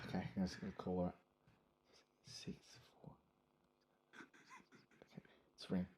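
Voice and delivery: nervous whisper before dialing. Real, not acted. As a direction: hush it, phone ringing.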